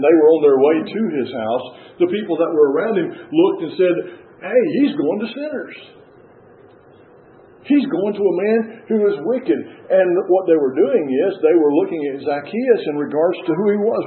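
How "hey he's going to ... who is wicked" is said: higher-pitched imitation of scandalized onlookers; mock disapproval. Crowd remarks on Jesus visiting a sinner, imitated disapproval. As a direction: voice the crowd's objection, raised in pitch.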